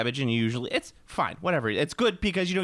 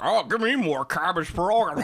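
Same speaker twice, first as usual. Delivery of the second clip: mock greedy uncle; 2 semitones higher, 3 dB louder than usual. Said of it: "who's always like".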